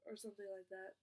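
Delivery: stumbling, repeating words while rushing; stuttering. Real, not acted. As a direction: trip over the words nervously. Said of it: "I'm stuttering".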